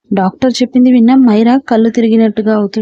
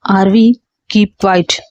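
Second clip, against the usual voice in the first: slow, low and firm command; father calmly ordering his daughter to stop; 3 semitones lower, much slower than usual. Acted. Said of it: "Aarav గొంతులో ఖచ్చితత్వానికి".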